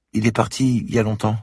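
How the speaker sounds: put-on a shy child of nine, close to tears; little girl voice. A narrator's reading. Little girl at the door tells the policeman she is locked out, high and tearful.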